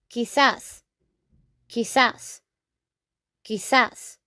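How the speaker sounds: quizás, kee-SAHS, stress on the end; Spanish quizás. Shown as a demonstration. Teacher drilling maybe in Spanish, clear model. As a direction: repeat quizás for the class. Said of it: "we say".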